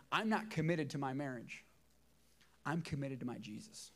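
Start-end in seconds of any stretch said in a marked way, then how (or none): 0.1-1.6 not leaned on firmly; not given weight, deliberate; stress on not. Shown as a demonstration. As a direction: press the word not in I'm not committed. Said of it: "I'm gonna say that again".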